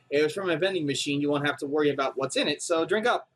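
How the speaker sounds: easy reassuring read; lightly voiced kind helper. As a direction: offer it as harmless. Character offers coffee.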